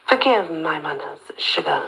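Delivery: a gentleman's Southern lilt, easy and sly; lilting southern accent. Acted. Colonel introducing himself to the startled girl, lilting Southern accent. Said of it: "He got a lilting southern accent".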